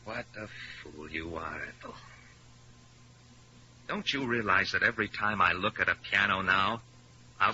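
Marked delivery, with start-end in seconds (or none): 0.0-1.9 quiet scorn after the storm; murmured contempt; bitter hush. Acted. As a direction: lower and much softer, contemptuous. Peter turns cold and bitter.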